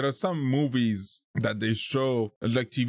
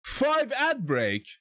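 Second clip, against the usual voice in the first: surprised; 3 semitones higher, slower than usual. Real, not acted. Disbelief at ad count.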